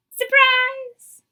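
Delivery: high, loud reveal; spring the surprise on the kids; surprised exclaim. Acted. Narrator revealing the babies, high and loud.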